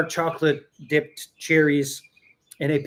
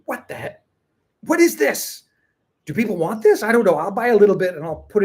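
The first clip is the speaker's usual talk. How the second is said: retold baffled surprise; 6 semitones higher, 4 dB louder than usual. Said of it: "to me, like".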